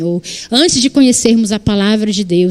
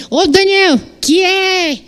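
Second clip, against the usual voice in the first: put-on higher, lazy teen reply voice; mother mimics her sons' careless answer; mimicking sons; 7 semitones higher, much slower than usual. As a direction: imitate the kids' careless "que é?" reply, pitched up. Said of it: "Aí eu falo assim".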